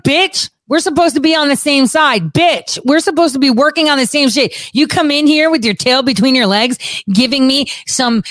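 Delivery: mock angry retort. Scolding Barr for quitting, indignant. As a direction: chew him out like a betrayed partner.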